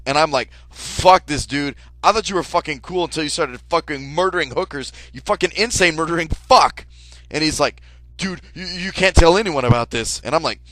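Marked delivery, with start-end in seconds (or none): 0.7-6.9 loud, furious rant; angry shout. Retold or imitated. Furious at murderer friend. 8.2-10.2 loud, higher urgent plea. Retold or imitated. Killer begs secrecy.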